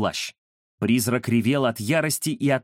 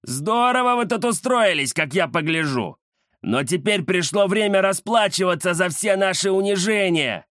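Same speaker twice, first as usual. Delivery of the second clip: gloating alley cat boss; 4 semitones higher than usual. Acted. Gang boss gloats, threatens.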